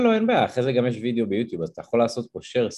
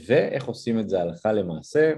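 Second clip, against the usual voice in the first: ordinary delivery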